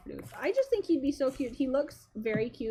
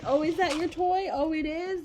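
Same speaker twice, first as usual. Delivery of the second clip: put-on baby talk; 6 semitones higher, 5 dB louder than usual. Shown as a demonstration. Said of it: "repeat words".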